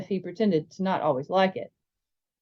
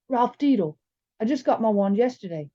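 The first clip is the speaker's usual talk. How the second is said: slightly raised, earnest schoolboy; a hint of a bookish boy; lightly voiced bigger boy; 4 semitones higher than usual. Bigger boy asks James about his famous relative, lightly voiced earnestness. Voices Ralph introducing himself.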